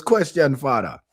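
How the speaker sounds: lightly imitated Jamaican host; Jamaican accent. Host monkey addresses his elder again, imitated Jamaican accent. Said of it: "I love how they talk".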